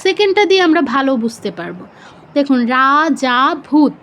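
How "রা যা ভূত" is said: "রা, যা, ভূত" syllable by syllable, each vowel long. Shown as a demonstration. Teacher pointing out long vowels, রা, যা, ভূত drawn out separately. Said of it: "তিনটেই দীর্ঘস্বর আছে".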